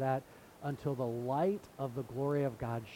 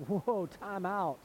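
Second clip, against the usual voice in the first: mock indignant objection; 3 semitones higher than usual. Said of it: "they said".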